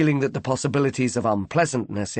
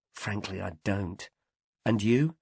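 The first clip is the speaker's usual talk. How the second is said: confiding hush; 2 semitones lower, 6 dB quieter than usual. Acted. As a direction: murmur it just between you two. Confiding aside.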